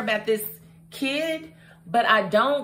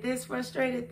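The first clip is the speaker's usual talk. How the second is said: mock frustration; 2 semitones higher, 6 dB quieter than usual. Shown as a demonstration. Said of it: "how frustrated have I been".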